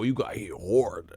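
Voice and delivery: slow, stretched "hard" like "hord". Shown as a demonstration. Correcting a listener, "hard" said as "hord". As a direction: draw "hard" out with a round O. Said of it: "had to put an O in that".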